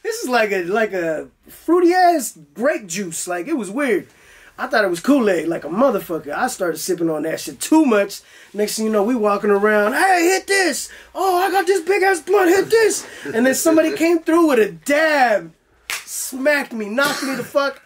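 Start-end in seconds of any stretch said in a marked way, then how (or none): 0.0-3.3 high, slow, sing-song delight; delighted surprise. Retold or imitated. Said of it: "I was like". 9.9-13.1 high hyped voice offering a blunt; pushy offer. Retold or imitated.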